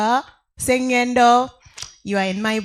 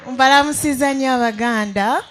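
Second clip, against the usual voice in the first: loud laughing hello in Luganda; laughing greeting; 3 semitones higher, 5 dB louder than usual. Real, not acted. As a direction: greet them warmly with a laugh. Greets fellow Baganda with laugh.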